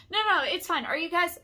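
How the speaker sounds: high, loud mock insistence; retold insisting. Intruding man brushes off her protest, high loud mimicry. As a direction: imitate a man talking over you.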